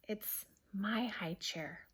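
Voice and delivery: soft, slow and hurt; whispered. Acted. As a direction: say it under your breath, slowly. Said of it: "whispered Peter".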